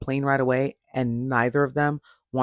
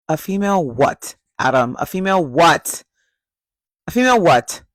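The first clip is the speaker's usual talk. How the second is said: pressing demand; 3 semitones higher, 3 dB louder than usual. Real, not acted. Viewer pressing Adam about the word females, building indignation. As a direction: keep pushing until it breaks.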